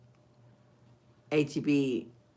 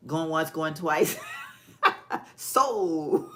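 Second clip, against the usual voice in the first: auctioneer call; much slower than usual. Pretend.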